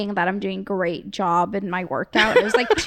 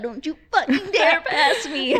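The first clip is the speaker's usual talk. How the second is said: raised-pitch warning to drivers; mock threat; 5 semitones higher than usual. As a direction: act out daring the cars, half laughing. Reenacting threat to passing SUVs.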